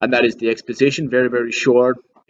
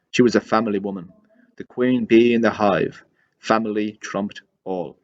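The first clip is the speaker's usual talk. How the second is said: measured dramatic read-aloud with pauses between phrases; deliberate recital of a character's monologue; soliloquy reading. Acted. Reads own soliloquy aloud.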